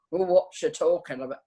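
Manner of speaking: badly faked Scottish stoical chap; attempted Scottish accent. Nurse imitating stoical Scottish colleagues, attempted Scottish accent. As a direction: have a poor go at a Scottish accent. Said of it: "some of our Scottish stoical chaps".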